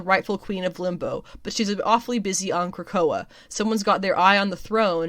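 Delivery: lively, emphatic solicitation read; promo copy read. Acted. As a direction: sell the comic blurb to fans. Reads solicitation aloud.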